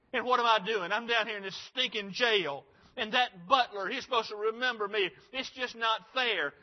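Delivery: hammed-up aggrieved grumbling; lightly acted indignant whining, punching the grievances; fairness-freak complaint. Preacher imagines Joseph complaining from jail, fairness-freak whine. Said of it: "had been a fairness freak".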